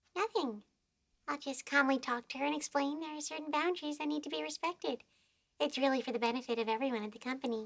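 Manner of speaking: eerie, creepy, unsettling delivery. Asked what they will do if she is up to anything, answering in a creepy voice. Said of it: "what a creepy voice".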